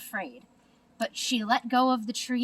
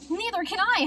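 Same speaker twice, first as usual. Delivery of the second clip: much higher mock howl; 11 semitones higher, 3 dB louder than usual. A narrator's reading. Flitter howling while lost in the dark, higher. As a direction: wail it out in alarm. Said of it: "howled Flitter".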